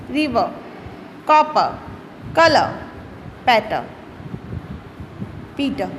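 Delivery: "रिवर", "कलर", "पीटर" ending on a soft vowel with no R sound; silent final R. Shown as a demonstration. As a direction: drop the final R on each word, teacher demo. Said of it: "देखो कैसे read करेंगे". (शब्द के अंत का आर मत बोलो, जैसे "रिवर" में)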